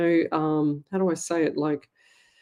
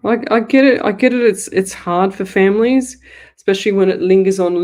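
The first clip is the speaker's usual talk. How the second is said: loud insistence; 7 dB louder than usual. Real, not acted. Psychic firmly telling a viewer off, loud and insistent. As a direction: push it out, insistent and firm. Scolding a viewer about wishing death.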